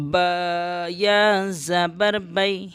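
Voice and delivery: slow syllable-by-syllable spelling. Shown as a demonstration. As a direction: spell each letter out slowly. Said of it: "یا لین کو جلدی پڑھتے ہیں".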